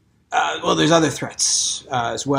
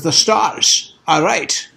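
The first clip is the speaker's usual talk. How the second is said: ominous slow line; 4 semitones higher, much slower than usual. Acted. Ominous prophecy in character.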